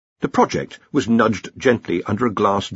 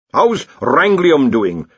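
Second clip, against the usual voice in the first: slow, higher hopeful enquiry; 5 semitones higher, 5 dB louder, much slower than usual. A narrator's reading. Senior wrangler asks after the element named for him, hopeful. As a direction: ask hoping for good news. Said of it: "said the senior wrangler hopefully".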